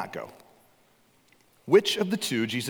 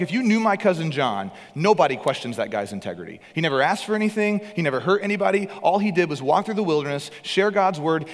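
passionate rebuke; 3 semitones higher, 3 dB louder than usual. Acted. Jesus rebukes Pharisees about John.

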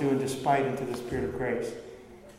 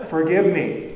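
louder repeat; 4 dB louder than usual. Acted.

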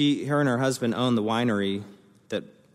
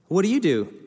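higher and louder, keen; eager question; 10 semitones higher, 6 dB louder than usual. Retold or imitated. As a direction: pounce with interest. Retold excited wedding small talk.

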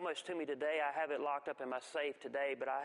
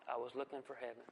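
soft echoed repeat; 5 semitones lower, 6 dB quieter, faster than usual. Shown as a demonstration. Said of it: "echoing the line for effect".

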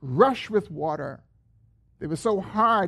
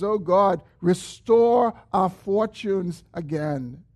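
slow, raised plea to restore; earnest cry; slower than usual. Acted. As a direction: beg God, stretching restore. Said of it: "The psalmist says".

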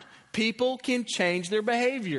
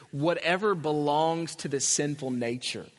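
whatever given the weight; stress on whatever; 4 semitones lower than usual. Shown as a demonstration. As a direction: lean on whatever in the verse. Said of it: "put the emphasis on the word whatever".

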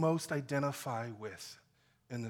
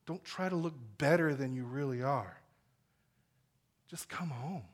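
tender invitation; 4 semitones lower than usual. Acted. Jesus inviting sinners home.

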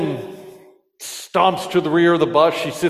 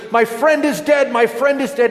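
mild mock shout; 8 semitones higher than usual. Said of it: "he shouts to the dispatcher".

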